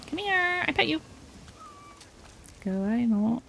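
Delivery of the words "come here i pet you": coaxing a cat. Real, not acted.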